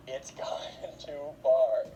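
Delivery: hushed, laughing whisper; mock whisper. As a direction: whisper it like a shocked onlooker. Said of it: "they're all like".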